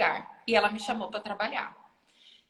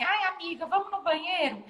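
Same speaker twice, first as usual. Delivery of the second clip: lightly mocking high girly plea; a hint of a clingy girlfriend asking company; mock girly friend; 9 semitones higher than usual. Teasing the girls who never pee alone, mock girly voice. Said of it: "eu nunca fui daquelas meninas de falar assim".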